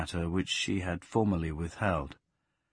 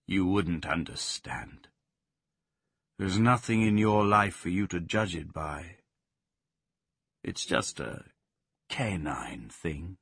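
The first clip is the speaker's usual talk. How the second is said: Sirius brooding; 2 semitones lower than usual. Acted. Sirius the dog answering Plaxi in gloom. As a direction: brood darkly, words dragging.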